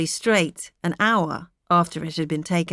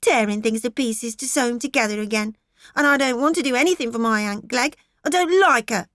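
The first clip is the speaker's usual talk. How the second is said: put-on higher, louder defiant girl; cross child; 5 semitones higher, 4 dB louder than usual. A narrator's reading. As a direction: toss the words back at mother. Maggie cross.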